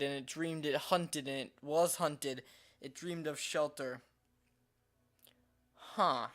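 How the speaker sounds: measured reading with a slight British lilt; storybook narration, faintly British; light British accent. Real, not acted. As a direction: read it out with a hint of a British accent. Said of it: "weird British accent when I read these".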